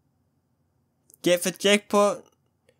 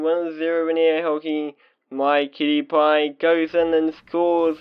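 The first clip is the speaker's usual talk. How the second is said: playful announcer narrating the match; teasing commentary voice; mock play-by-play. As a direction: call the game like a hammed-up sportscaster. Mock sports commentary of hockey.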